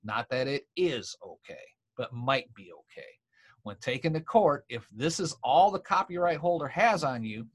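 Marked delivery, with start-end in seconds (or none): 2.0-3.1 "might" picked out from the phrase; a pointed, cautioning "might"; stress on MIGHT. Real, not acted. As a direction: put the weight on "might". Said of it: "Notice I said might".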